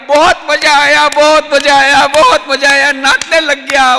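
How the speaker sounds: loud, high joyful chant; gleeful, dancing. A narrator's reading. Narrator voicing the jealous man's wild delight. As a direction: crow it out like a man dancing with glee. Man rejoices, dances.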